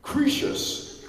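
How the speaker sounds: loud, high shouted name; booming call. Retold or imitated. Peter Mensah calling the character onto the floor, loud shout. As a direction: bellow the name across the arena. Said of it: "he went".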